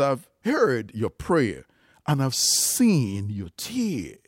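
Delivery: slow, every word of "I've heard your prayer and I've seen your tears" drawn out; slow and weighty. Shown as a demonstration. Preacher stressing God's promise to Hezekiah, slow and weighty. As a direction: dwell on each word so it sinks in. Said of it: "Pay attention to what God said to Isaiah".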